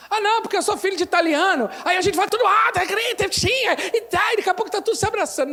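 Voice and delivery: mock Italian family shouting. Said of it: "Tem gente que se escraviza".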